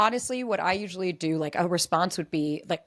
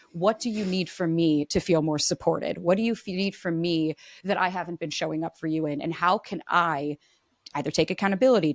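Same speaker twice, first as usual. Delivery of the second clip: validating reply; 2 semitones lower than usual. Shown as a demonstration. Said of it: "what I'm hoping I'll get back".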